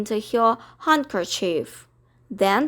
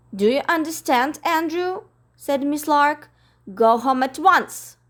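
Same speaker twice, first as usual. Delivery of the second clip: a touch higher, firm order; stern Miss Lark; 4 semitones higher than usual. Acted. Miss Lark orders Andrew home, mildly stern. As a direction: insist firmly.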